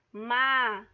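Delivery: "mar" projected as a stressed syllable; calling out. Shown as a demonstration. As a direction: call out "mar" with force. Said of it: "como se você estivesse chamando ela".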